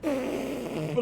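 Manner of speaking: short high mocking laugh; a snide laugh at him. Real, not acted. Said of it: "I made a sound".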